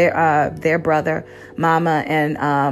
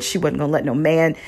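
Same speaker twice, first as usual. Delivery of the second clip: ordinary delivery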